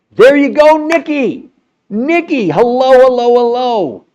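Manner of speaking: high, loud sing-song hello; excited calling out. Real, not acted. Host calling out to viewer Nikki, high and loud. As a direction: call out to her cheerfully, way up high.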